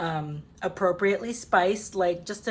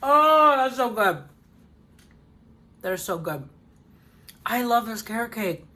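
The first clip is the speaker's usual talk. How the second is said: delighted savouring; 3 semitones higher, 4 dB louder than usual. Real, not acted. Baker tasting her carrot cake, blissfully delighted. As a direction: savour the first bite out loud. Reacting to first bite.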